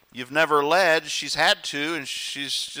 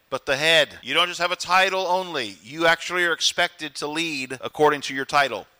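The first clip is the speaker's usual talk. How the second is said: preaching; 3 semitones lower than usual. Acted. Same passage preached live.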